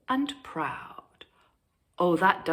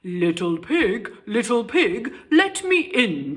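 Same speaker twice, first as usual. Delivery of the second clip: bellowing wolf; 3 semitones higher, 5 dB louder than usual. Acted. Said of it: "bellowed the wolf".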